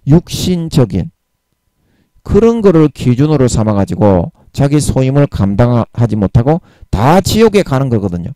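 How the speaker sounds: ordinary delivery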